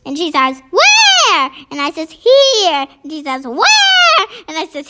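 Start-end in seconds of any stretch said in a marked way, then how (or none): 0.7-1.5 high, loud, drawn-out call; baffled calling. A narrator's reading. Mummy searching for her invisible boy, baffled calling. 2.1-2.9 put-on slightly high child's reply; piping up. A narrator's reading. Invisible boy answering his mummy, piping up. 3.5-4.2 high, loud, drawn-out call; baffled calling. A narrator's reading. Mummy searching for her invisible boy, baffled calling.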